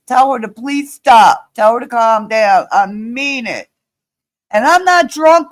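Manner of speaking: real loud, emphatic protest; heated denial in short bursts; angry insistence. Real, not acted. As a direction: insist firmly, losing patience. Insisting she is not drunk.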